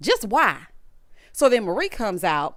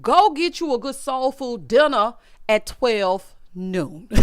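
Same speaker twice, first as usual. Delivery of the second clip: own past self; slower than usual. Retold or imitated. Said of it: "And I was like".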